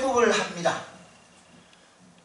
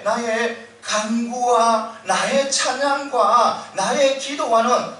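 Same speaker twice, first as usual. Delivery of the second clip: emphatic preaching; 4 dB louder than usual. Acted.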